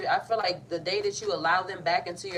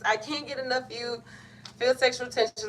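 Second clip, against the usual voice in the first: excited card read; 6 semitones higher than usual. Real, not acted. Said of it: "Cancer, I cannot do this".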